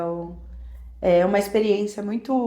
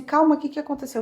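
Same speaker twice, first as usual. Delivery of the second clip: quick, higher-pitched concerned husband; raised pitch, rushed concern; retold worried question; 6 semitones higher, much faster than usual. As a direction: imitate a husband asking what's wrong, hurriedly.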